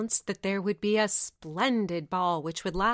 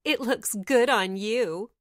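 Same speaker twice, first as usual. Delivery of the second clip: louder mocking stepsister tease; a spiteful cackling taunt; 5 dB louder than usual. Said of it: "the stepsisters cackled".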